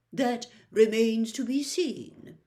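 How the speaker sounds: smiling with mild menace; a smug little threat; nasty smile. Acted. Malfoy answers Fudge with a nasty smile. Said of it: "with a nasty smile".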